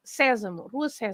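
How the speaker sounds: "Sesamo" stressed on its first E; accent on the E. Shown as a demonstration. Co-host correcting a missing accent, "Sesamo" with stressed E. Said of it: "there is an accent on the E".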